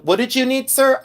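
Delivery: high-pitched imitation of an order taker; drive-thru lady. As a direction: put on a high customer-service voice. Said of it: "the lady came on and she goes".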